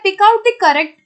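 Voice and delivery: very slow, word-by-word reading of the question; deliberate dictation pace. Shown as a demonstration. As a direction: read it out slowly, as if dictating to a class. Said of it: "अगला आता है".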